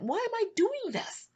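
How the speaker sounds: high, slow whispered plea; whispering to God in despair; anguished whisper. Retold or imitated. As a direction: breathe the question out in despair. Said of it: "I'm frustrated. I'm angry. I'm hurt".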